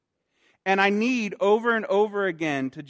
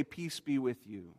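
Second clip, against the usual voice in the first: softer, slowed tender blessing; 5 semitones lower, 11 dB quieter than usual. Acted. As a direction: let each word settle gently. Jesus reaching locked heart.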